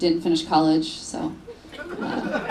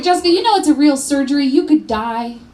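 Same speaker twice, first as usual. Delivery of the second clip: lightly voiced worried grandma, higher and quick; 5 semitones higher, 3 dB louder than usual. Grandma warning granddaughter about surgery, mildly worried. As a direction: warn her with a touch of alarm. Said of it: "My grandma was really worried".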